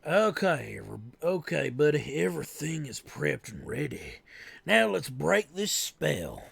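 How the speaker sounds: light Southern drawl; southern accent. Acted. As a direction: redo it in a Southern voice. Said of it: "Oh yeah, that's right, the southern voice".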